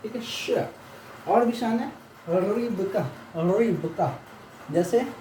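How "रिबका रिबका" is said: रिबका said "rib-ka"; teacher models रिबका syllable by syllable; pronunciation demo. Shown as a demonstration. Teacher gives an example word for the sign, careful pronunciation. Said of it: "जैसे रिबका".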